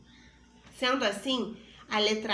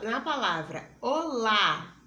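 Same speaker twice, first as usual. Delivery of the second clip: "olá" slower, with the final "lá" louder and stronger; stressed final syllable; 4 dB louder than usual. Shown as a demonstration. Teacher stresses "olá" to show the stressed vowel. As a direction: lean on the "lá" of "olá". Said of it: "Perceba que o som da vogal A está mais forte".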